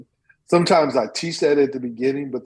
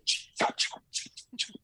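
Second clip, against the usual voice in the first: whispered chop sounds; 10 dB quieter, slower than usual. Retold or imitated. Woodcutter chopping, sound imitation.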